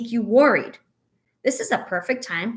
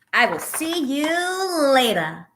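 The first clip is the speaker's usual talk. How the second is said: put-on cheery child goodbye; 5 semitones higher, slower than usual. Child leaving parent.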